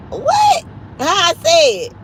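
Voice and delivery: high, squealed disbelief; incredulous. Real, not acted. Streamer questioned on how she says a word, incredulous. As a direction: shoot up high in baffled surprise. Baffled by comment on her pronunciation.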